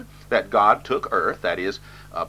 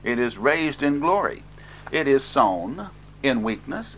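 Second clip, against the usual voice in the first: higher, measured declaiming; emphatic scripture reading; 4 semitones higher than usual. Real, not acted. Preacher reading verses on the resurrection, emphatic scripture reading. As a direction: read each verse out as a solemn proclamation.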